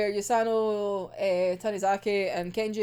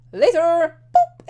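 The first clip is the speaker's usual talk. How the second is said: louder, tossed-off farewell; breezy loud goodbye; 6 semitones higher, 10 dB louder, slower than usual. Retold or imitated. Imitating the fighter leaving through the window, louder and breezy. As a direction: call it out as you leap away. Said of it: "goes like".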